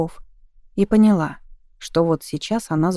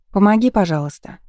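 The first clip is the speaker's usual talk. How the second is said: raised voice over engine noise; calling out; 3 semitones higher, 4 dB louder than usual. Acted. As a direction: call out to be heard. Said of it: "крикнула Катя".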